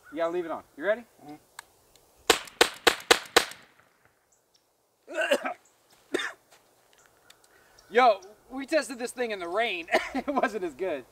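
muffled behind full face mask; coughing inside gas mask; talking through gas mask. Real, not acted. Seen 3: Masked man wears gas mask throughout; main talker may be unmasked man.

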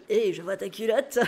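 a lightly voiced creepy murmur in the ear; a hint of a sleazy guy muttering to a girl; creepy whisper. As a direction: play it sleazy, leaning close to the ear. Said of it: "chuchoter dans l'oreille en mode".

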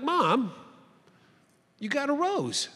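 high-pitched, amazed question; retold astonishment. Son seeing mom's rose after surgery, astonished. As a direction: act out disbelief, voice lifting high.

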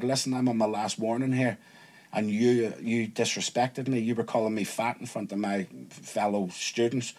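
understated menace, kept quiet; quiet warning. Retold or imitated. Acts out warning the teacher.

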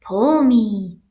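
loud, stretched-out coaxing; little pigtail voice. A narrator's reading. Pigtail urging the boy to pull, coaxing. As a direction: draw it out to tempt him. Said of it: "heard a little voice".

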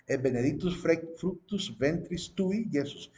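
slow, deliberate Latin quotation; Latin prayer recitation. Shown as a demonstration. Teacher repeating the prayer line to show the name, Latin recitation. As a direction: dwell on each Latin word up to Yesus. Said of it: "en la lengua latina".

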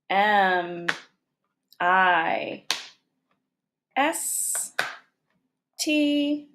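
each letter said slowly and apart, "M" "I" "S" "T" "A" "K" "E"; spelling letter by letter. Shown as a demonstration. Teacher to students spelling the word aloud, letter by letter. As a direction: spell it out one letter at a time for the class. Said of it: "let's spell away mistake".

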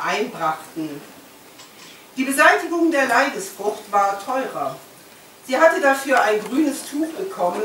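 measured literary reading aloud; lifted phrase openings, falling sentence ends; story narration. A narrator's reading. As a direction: read the novel to an audience, phrase by phrase. Reads aloud from the book.

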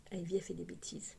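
whispered aside, no voice; chuchoté. Real, not acted. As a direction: breathe it as a quick secret aside. Aside about the child. (en chuchotant)

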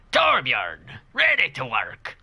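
drawn-out, hammed-up game character voice; character impression. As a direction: play a game hero announcing himself slowly. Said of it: "That's my best horror impression".

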